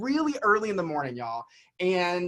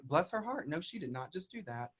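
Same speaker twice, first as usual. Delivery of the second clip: inner sarcastic thought; 11 dB quieter than usual. Retold or imitated. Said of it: "I just remember in my head being like".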